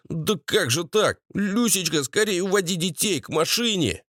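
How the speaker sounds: high, fretful meek husband; bleating Valera. A narrator's reading. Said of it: "блеял Валера". (блеющий Валера, высоким голосом)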